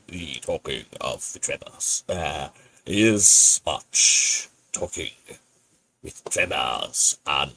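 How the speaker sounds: slow, broken-English put-on accent; hammed-up foreign accent, drawn out; mock foreign accent. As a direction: play a pompous foreign host. Improvised foreign-accented host voice.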